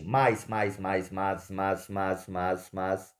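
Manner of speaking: "mais" repeated evenly as one single syllable; steady repeats of one-syllable "mais"; one-syllable demo. Shown as a demonstration. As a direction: chant "mais" over and over, the vowels run together. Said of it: "é como se a gente lê isso assim".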